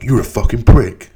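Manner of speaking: mock outraged snap at him; hammed-up angry heckler; angry commenter. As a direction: sneer it like an internet troll.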